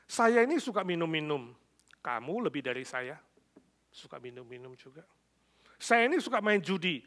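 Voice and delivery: mildly irritated mock husband; suami marah. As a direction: accuse her, punching the openings. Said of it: "Suaminya marah, mengatakan". (suami kesal menuduh istrinya)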